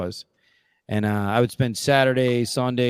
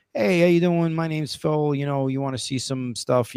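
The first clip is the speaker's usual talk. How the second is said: cold-calling salesman; 5 semitones higher than usual. Retold or imitated. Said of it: "kinda cold calling".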